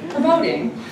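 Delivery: real giggle on the word; laughing. Real, not acted. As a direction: say it while laughing at yourself. Laughing after stumbling on championing.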